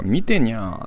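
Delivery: lightly voiced cat, drawn out; cat's meow. Reading the flyer's cat caption to listeners, lightly voiced cat. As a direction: read the cat's line with a stretched nya. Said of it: "しかも猫が".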